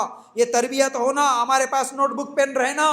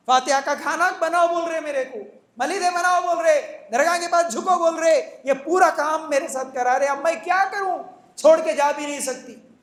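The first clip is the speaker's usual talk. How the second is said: higher, plaintive voice of a trapped wife; helpless lament; 4 semitones higher than usual. Retold or imitated. Sister pleading with the preacher about her husband, plaintive. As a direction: whine it out like she has no way out.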